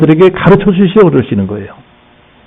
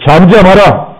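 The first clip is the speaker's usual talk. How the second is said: rebuking command; 3 semitones higher than usual. Acted. Jesus commanding wind and sea, stern rebuke. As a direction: command it sternly, rising in pitch on the second. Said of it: "바람을 꾸짖습니다".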